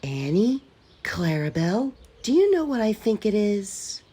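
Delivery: a whisper meant to be overheard; loud stage whisper. A narrator's reading. Thomas teases Gordon with a loud stage whisper. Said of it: "whispered Thomas loudly".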